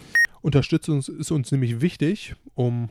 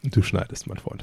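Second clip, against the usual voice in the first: stifled giggles; 3 semitones lower than usual. Real, not acted. Laughing after fumbled reading.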